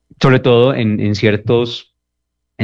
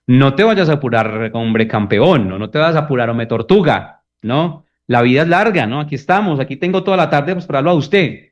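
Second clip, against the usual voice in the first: higher, needling mock patience; mocking a partner who takes too long; 4 semitones higher than usual. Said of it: "Suena a burla".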